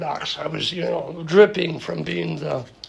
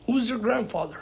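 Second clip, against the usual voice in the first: laughing through quote; 7 semitones higher than usual. Retold or imitated. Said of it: "He's like".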